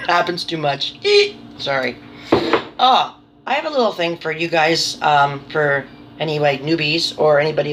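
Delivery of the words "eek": squeak. Real, not acted. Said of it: "nervous habit".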